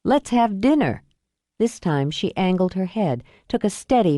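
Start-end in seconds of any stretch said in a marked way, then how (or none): 0.0-1.0 higher, brighter ask with dinner falling; second try. Acted. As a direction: try "Let's have dinner" again, lifted and hopeful. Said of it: "Let's try again".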